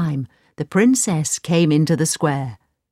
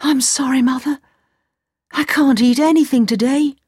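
put-on lovesick young man turning down lunch; young Aladdin, lovesick; 7 semitones higher than usual. Aladdin voiced by narrator.

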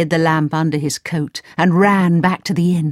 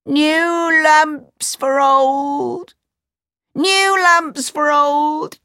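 crying out; 11 semitones higher, much slower than usual. A narrator's reading. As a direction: call up to the palace. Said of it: "He stood outside the door and cried".

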